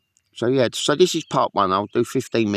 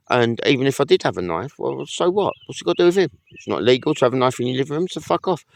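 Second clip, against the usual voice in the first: angry rant; 5 semitones higher than usual. Real, not acted. Ranting about the sergeant.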